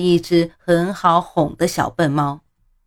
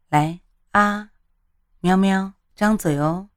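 put-on coaxing a small child, smiling; sweet, playful coaxing to eat; kindergarten teacher voice; 2 semitones higher than usual. A narrator's reading. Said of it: "带着哄小孩的语气笑着说".

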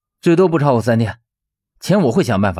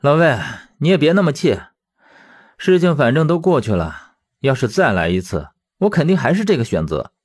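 higher-pitched, earnest reassurance; consoling; 4 semitones higher than usual. Acted. Teacher calming his angry old friend, consoling. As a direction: soothe him, ending on steady conviction. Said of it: "他反倒安慰起了魏正义".

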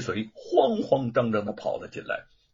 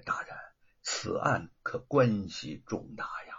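low warning; 5 semitones lower, 4 dB quieter than usual. A narrator's reading. Magistrate leans close and whispers a warning to the prefect. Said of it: "低声地提醒说".

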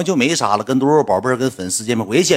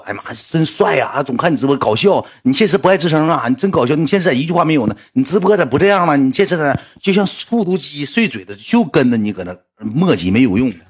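higher chatty fan voice; 4 semitones higher than usual. Retold or imitated. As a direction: gush at him like an eager fan. 粉丝跟着他说. (粉丝高声唠叨)

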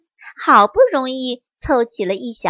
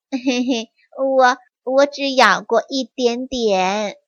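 embarrassed. Acted. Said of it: "不好意思地说".

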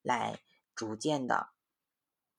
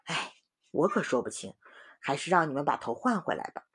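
put-on sighing old doctor. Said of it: "白胡子医生叹了一口气说".

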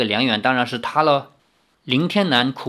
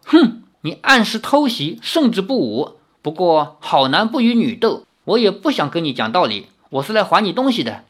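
retort; 3 semitones higher than usual. Acted.

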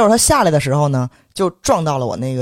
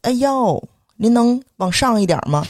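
higher-pitched, exaggerated courtesy; mock-polite request; 7 semitones higher, slower than usual. Asking the man to step up onto the kerb, mock-polite. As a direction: play an overly courteous pedestrian request.

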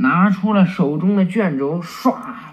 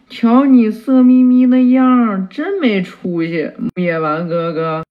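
loud, higher jeer at first; mocking tease; 3 semitones higher, 5 dB louder than usual. Boy mocking his smitten teacher, loud jeering. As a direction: scoff at his drooling teacher.

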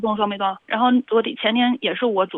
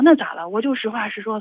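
louder mock-defiant comeback; retold righteous defiance; 2 semitones higher, 3 dB louder than usual. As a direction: imitate a husband brazenly justifying himself. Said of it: "他就理直气壮地说". (模仿理直气壮地顶嘴)

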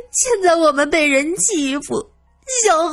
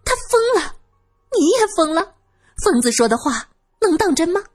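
high-pitched, indignant denial; scornful retort; 10 semitones higher than usual. Acted. Widow denying a madman's words, high and scornful. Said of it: "月梅啐了一口".

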